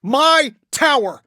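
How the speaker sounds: a high, drawn-out wail of loss; anguished outcry. Acted. Tony mourning his destroyed tower, drawn-out anguished cry. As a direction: cry it out like your home just fell.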